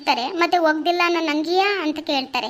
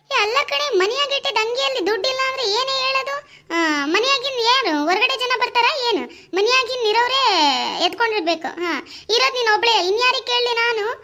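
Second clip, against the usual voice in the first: much higher, frustrated arguing; exasperated accusing; 5 semitones higher than usual. Acted. Husband accusing his wife, exasperated and higher. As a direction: press her, he's fed up.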